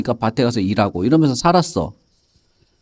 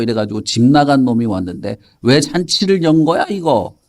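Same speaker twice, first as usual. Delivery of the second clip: irritated eldest son; 2 semitones lower than usual. Acted. Eldest son grumbling about the feast for his brother, irritated. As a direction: play mild exasperation, dragging the opening words. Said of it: "이 큰아들이 짜증이 났어".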